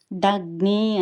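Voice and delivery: దగ్ని slow, with గ్ని pressed firmly; stressed conjunct. Shown as a demonstration. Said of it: "కొంచెము ఒత్తి పలకాలి".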